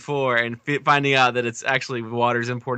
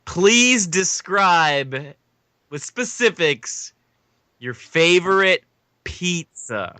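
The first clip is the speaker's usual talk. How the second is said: slow, drawn-out game show host delivery; mock announcer; much slower than usual. Host announces today's versus to the panel, mock announcer. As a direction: stretch each phrase like a showy announcer.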